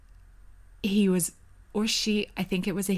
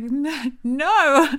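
high, mock-panicked cry getting louder; retold panicked scream; 8 semitones higher, 6 dB louder than usual. Woman screaming at waking boyfriend, retold panic. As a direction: re-enact a frantic refusal, second word loudest. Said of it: "And I'm screaming".

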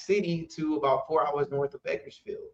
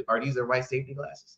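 goofy answer; 3 dB quieter than usual. Retold or imitated. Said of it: "hit 'em with a goofy answer".

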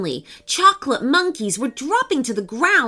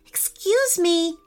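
high, tentative approach; careful; 8 semitones higher than usual. Acted. Jensen approaches the crying girl, carefully. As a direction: approach someone upset, carefully, voice pitched up. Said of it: "said Jensen carefully".

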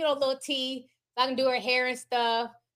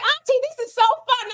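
put-on kid voice; 10 semitones higher, 4 dB louder than usual. Niece voiced in a story.

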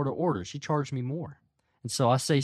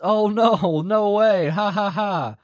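higher, louder, put-on polite customer-service reaction; 5 semitones higher, 5 dB louder, slower than usual. Clerk humoring an irate customer, put-on customer service voice. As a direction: fake a polite laugh like a clerk placating a customer. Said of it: "your customer service voice".

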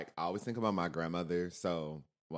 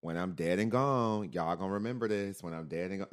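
little country voice; 3 semitones higher, 5 dB louder than usual. Retold or imitated. Great-grandma warning hard-headed grandkids, lightly voiced country voice. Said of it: "her little country voice".

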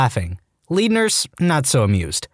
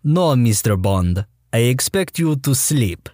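Bond villain voice; slower than usual. Retold or imitated.

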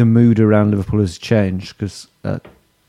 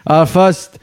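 higher-pitched put-on Scouse; Liverpool accent; 6 semitones higher than usual. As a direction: start an ad read in mock Liverpudlian. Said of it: "this is Liverpool accent".

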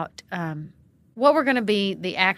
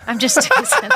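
laughing; 8 dB louder than usual. Real, not acted. Jokes after teasing her guest.

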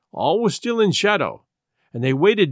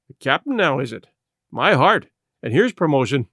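plain reading voice

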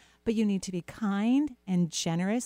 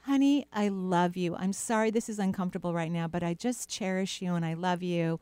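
tender self-talk; 2 semitones lower than usual. Pretend. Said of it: "You're gonna go".

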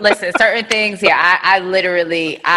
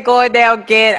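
mock Southern; 3 semitones higher, slower than usual. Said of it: "and now you saying".

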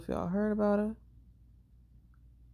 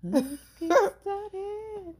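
laughing; 13 semitones higher, much slower than usual. Real, not acted. Laughing show intro line.

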